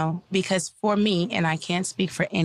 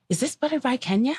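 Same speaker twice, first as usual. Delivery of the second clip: excited fan; 6 semitones higher, faster than usual. Retold or imitated. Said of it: "they were like".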